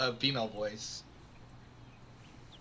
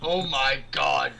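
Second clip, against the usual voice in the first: shocked gasp; 9 dB louder, slower than usual. Real, not acted. Reacting to gory narration.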